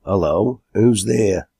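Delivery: understated hail; calling out. Acted. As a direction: call out with restraint. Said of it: "he called out".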